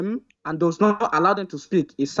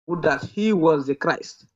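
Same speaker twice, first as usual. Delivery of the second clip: slow reading; 3 semitones lower, slower than usual. Real, not acted. Reading the verse carefully.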